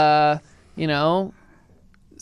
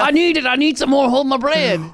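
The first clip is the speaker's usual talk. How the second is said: higher-pitched pretend addict; mock desperate craving; 4 semitones higher than usual. Co-host joking he's addicted to their podcast, mock desperation. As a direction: plead like you are hooked, hammed-up.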